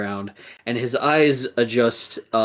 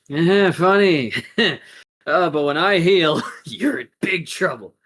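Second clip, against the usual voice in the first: loud, higher, sarcastic chuckling; strained, raised mock amusement; wounded hero's threat; 5 semitones higher, 4 dB louder than usual. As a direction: threaten through a pained laugh. Hurt hero threatens giggling attacker.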